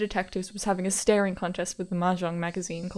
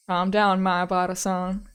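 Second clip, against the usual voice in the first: firm start, slowing on the name; calming detective; 4 dB louder, slower than usual. Acted. Detective to frantic caller, firm and calming.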